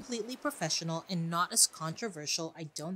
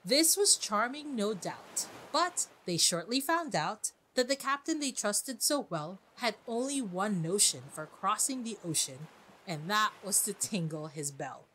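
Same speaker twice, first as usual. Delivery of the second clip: lively, storybook reading of a verse; poem recitation. Retold or imitated. Host reading her favourite stanza aloud, lively recitation. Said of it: "my favorite line about him is this".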